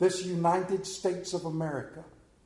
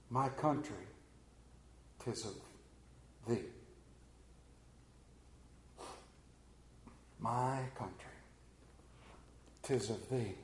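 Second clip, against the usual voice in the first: softer, lower hushed hymn words; hushed hymn line; 4 semitones lower, 13 dB quieter than usual. Real, not acted. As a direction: breathe the hymn words softly. Soft quoted hymn line.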